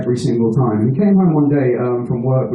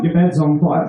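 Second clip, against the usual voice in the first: matter-of-fact shout. Retold or imitated. Answering the woken flatmate.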